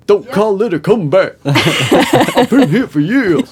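high, loud, laughing brag; laughing gloat. Real, not acted. Player gloats to the others after guessing right, laughing. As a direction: crow about it through laughter.

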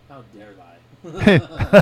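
very slow, laughing "How dare I?"; slow laughing mock outrage; mock old lady. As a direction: drag it out like an indignant old woman. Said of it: "she's like".

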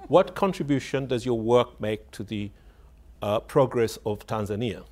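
imitating a journalist's pointed public question; mimicked challenging question from the audience. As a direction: pose it as a loaded challenge. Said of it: "that's the tone of voice he said it in".

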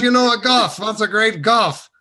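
mimicking the old man's insistence; Mister Rabb insisting. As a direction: repeat it like it's obvious. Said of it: "He goes".

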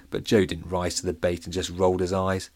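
ordinary delivery

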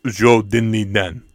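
slow mock Russian accent; hammed-up Russian villain accent. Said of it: "talking in a Russian accent".

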